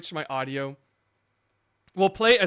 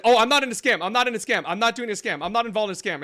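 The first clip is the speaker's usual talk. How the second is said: imitating her defensive protest, louder and higher at the start; mock defensive denial; 5 semitones higher, 4 dB louder, faster than usual. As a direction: parrot her insistent denials, hammed-up. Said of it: "she's very defensive about it".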